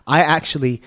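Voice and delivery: hoarse from being sick; raspy voice. Real, not acted. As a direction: talk through a raspy sick throat. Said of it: "I now have this lovely voice".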